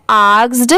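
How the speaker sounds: आस्क्ड with the final consonants sounded; pronunciation demo. Shown as a demonstration. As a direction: model आस्क्ड as one word. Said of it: "इसकी pronunciation क्या है?". (आस्क्ड का साफ़ उच्चारण)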